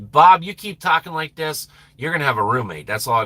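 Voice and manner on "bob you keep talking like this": ordinary talk, nothing marked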